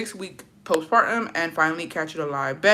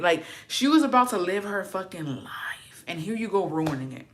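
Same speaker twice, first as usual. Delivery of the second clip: whispered scolding; 2 semitones higher than usual. Retold or imitated. Whispered aside at Cersei.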